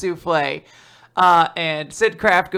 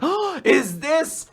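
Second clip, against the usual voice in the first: curious detective; 10 semitones higher, slower than usual. Acted. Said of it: "he's like".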